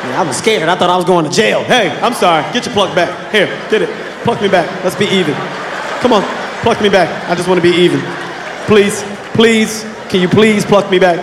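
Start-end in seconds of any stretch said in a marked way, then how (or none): 1.6-11.2 pleading apology. Retold or imitated. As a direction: beg her to make it even. Begging girlfriend after plucking her.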